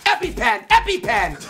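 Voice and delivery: high-pitched fake panic; hammed-up high-pitched cry; mock emergency cry. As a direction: squeal for help in a mock allergy attack. Mock peanut allergy emergency.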